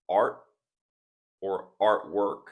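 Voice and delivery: "art" and "artwork" with the T held back, unreleased; silent T. Shown as a demonstration. Teacher points out examples to learners, "art" and "artwork" with silent T. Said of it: "is a similar silent T".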